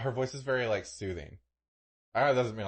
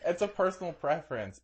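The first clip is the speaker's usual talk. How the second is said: higher, laughing mimic of her words; laughing echo; 8 semitones higher than usual. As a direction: parrot it back through a laugh. Mock echo of friend.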